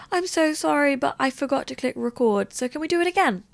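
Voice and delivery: imitated high-pitched sheepish apology; apologetic pleading. Photographer asking her for a retake, mock apologetic pleading.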